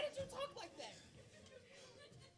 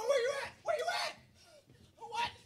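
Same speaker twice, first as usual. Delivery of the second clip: calling out; 4 semitones higher than usual. Acted. Searching for his friend in the sandstorm, shouting. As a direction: call for your buddy you can't see.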